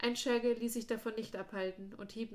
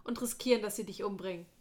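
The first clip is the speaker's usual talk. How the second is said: higher, louder and faster protest; passionate protest; 3 semitones higher, 5 dB louder, faster than usual. Acted. Darren refusing to leave his friend to die, loud and fast. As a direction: pour it out in a rush, pitched up.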